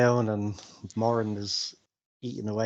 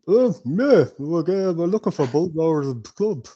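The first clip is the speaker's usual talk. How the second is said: higher and louder, eager answer; eager blurt; 5 semitones higher, 7 dB louder than usual. Acted. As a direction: blurt it out too keenly. Bilbo blurts the secret.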